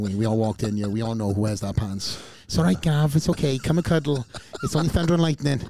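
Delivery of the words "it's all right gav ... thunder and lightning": put-on raised, louder soothing baby talk; mock comforting a child. Host teasing his mate as a scared child, mock soothing. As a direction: coo at him like a frightened kid in a storm.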